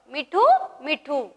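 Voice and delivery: "mithu mithu", first rising, second falling; parrot call. Shown as a demonstration. Teacher showing pupils the parrot's sound, singsong call. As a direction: imitate a talking parrot. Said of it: "पोपट कसा आवाज काढतो".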